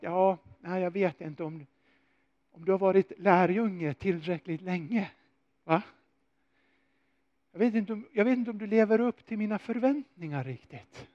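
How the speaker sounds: a hint of a grudging Jesus unsure of Peter; hesitant doubting Jesus. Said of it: "kunde ha svarat så här att".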